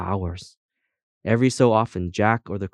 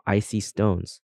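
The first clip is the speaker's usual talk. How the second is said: ordinary delivery, nothing marked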